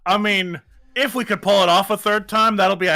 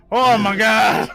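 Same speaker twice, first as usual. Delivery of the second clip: breathless, panting after effort; out of breath; 2 semitones higher, 3 dB louder, slower than usual. Real, not acted. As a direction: speak as if winded. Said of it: "similar to being out of breath".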